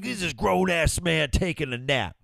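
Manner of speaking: high, outraged mock rant; imitating an indignant guy on TikTok; upset rant. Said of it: "the way he was so upset about it".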